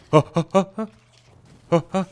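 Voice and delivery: short, high, loud huffs; effort grunts. Pretend. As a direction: puff out a huh with each hit. Effort noises while attacking.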